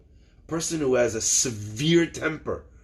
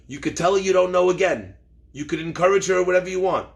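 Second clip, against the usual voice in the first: firm, slightly raised retold advice; emphatic instruction; 3 semitones higher, 4 dB louder, faster than usual. Elder rabbi advising a younger rabbi, emphatic. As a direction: lay it down with some force.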